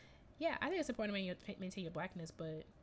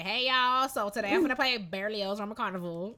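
loud, higher, bright mock stage announcement; louder, higher put-on performer voice; mock audition intro; 3 semitones higher, 9 dB louder than usual. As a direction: ham it up like a nervous player introducing a piece. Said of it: "going up to an audition and be like".

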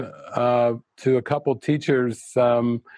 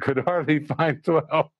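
real laughter breaking the words; laughing through the punchline; 2 semitones higher than usual. Real, not acted. Retelling the teacher's joke, laughing. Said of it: "I just was laughing so hard".

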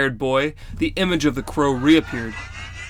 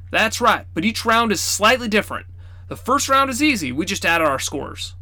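grandfather explaining rules; 5 semitones higher than usual. Acted. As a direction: spell out the rules patiently.

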